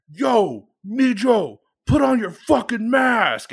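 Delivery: mild mock yell at a coworker; retold angry call-out. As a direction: call out the kid sharply, half-acted. Viejo yelling at Mijo.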